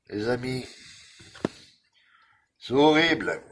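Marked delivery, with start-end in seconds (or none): 2.6-3.4 exasperated exclamation. Real, not acted. Complaining about the tiny letters.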